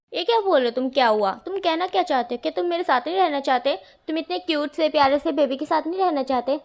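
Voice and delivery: mock-offended cry; sibling protests loudly, playfully hurt; indignant outburst.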